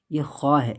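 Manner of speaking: خوا with a rasping throat kh; Arabic kha sound. Shown as a demonstration. Teacher demonstrates Arabic kh, throaty. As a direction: scrape خوا from the back of the throat. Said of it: "یہ کھا نہیں ہے".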